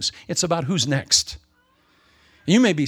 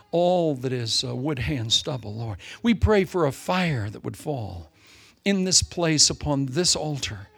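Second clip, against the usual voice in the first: closing prayer; 2 semitones lower than usual. Acted. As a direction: pray over the congregation, unhurried and fervent.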